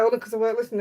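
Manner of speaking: fast mocking echo of husband; mocking repeat. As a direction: rattle it off, teasing him. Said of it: "Have you heard him?".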